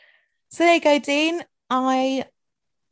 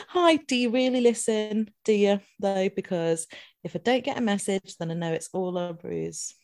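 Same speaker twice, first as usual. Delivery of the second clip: mock challenge to a listener. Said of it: "So I just thought it'd be nice to say".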